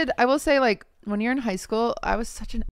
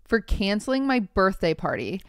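measured story-reading voice; reading aloud. Acted. Podcast host reading a Reddit post to co-host, reading aloud. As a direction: read the post out evenly.

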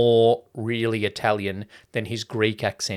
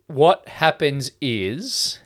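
usual speaking voice

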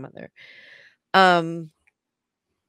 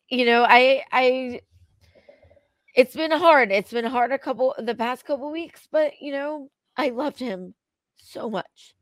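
emotional; 4 semitones higher, 4 dB louder than usual. Real, not acted. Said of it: "I'm very emotional".

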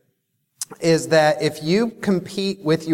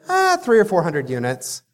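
lazy, yawned-out answer; yawning. Retold or imitated. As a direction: yawn through the number. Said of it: "hence the yawning".

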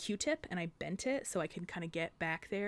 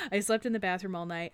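louder, punchy emphatic repeat; 5 dB louder than usual. Real, not acted. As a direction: hit it hard the second time. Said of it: "um, I slept in the bathroom all night".

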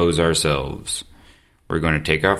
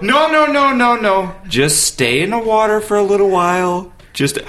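coaxing; 12 semitones higher, 3 dB louder than usual. Retold or imitated. Coaxing friend in cold pool.

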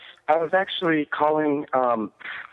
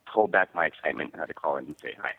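nervous fan voice; 9 semitones lower, 4 dB quieter than usual. Pretend. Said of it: "that nervous fan voice".

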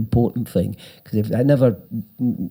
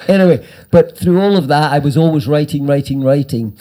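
emphatic; 3 semitones higher, 4 dB louder than usual. Real, not acted. Energetic emphasis on writing.

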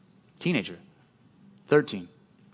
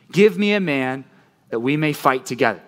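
giant's taunt. Acted. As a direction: draw out each word like a mocking giant. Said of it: "And the Philistine said".

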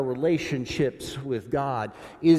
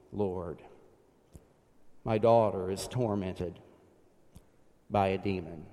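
psalm prayer litany. Acted. Preacher praying the psalm pleas aloud, fading into a hush. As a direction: pray the psalm, then let it fade to a hush.

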